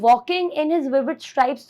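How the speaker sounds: slow, savoured line of poetry; poem recital. Shown as a demonstration. Teacher reciting a poem line to her class, slow and vivid. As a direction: read each word slowly to paint the picture. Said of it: "तो जब मैं बोलती हूँ".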